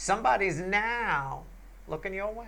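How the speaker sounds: emphasis on now, stretched with long o. Giving a reading, asking listeners to notice the delivery: stressed, stretched now. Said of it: "Emphasis on the word now with a stretched out O".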